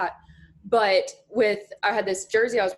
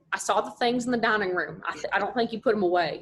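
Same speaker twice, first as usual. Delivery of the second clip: put-on thick North Mississippi accent. Dad needing a word, thick Mississippi accent. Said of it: "has a super thick accent".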